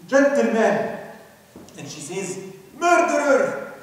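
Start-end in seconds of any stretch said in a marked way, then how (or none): 2.8-3.7 loud accusing yell, higher; a woman screaming at the killer; shouting murderer. Retold or imitated. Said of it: "shouting at him".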